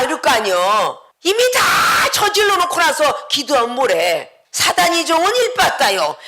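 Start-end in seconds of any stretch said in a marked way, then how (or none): none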